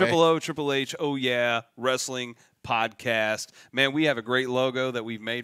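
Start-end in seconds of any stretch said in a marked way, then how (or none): 0.0-3.5 loud, slow, delighted plug; drawn out delight. Shown as a demonstration. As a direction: stretch out the name with joy. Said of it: "it's easier that way".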